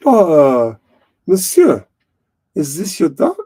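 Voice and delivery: hammed-up French accent; Clouseau. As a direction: do a Peter Sellers French detective. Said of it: "What's that Clouseau thing".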